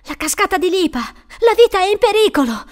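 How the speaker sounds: high, loud cry of warning; urgent danger warning, pitched high; alarmed cry. A narrator's reading. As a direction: raise the alarm, rising to a high shout. Frantic warning in the story.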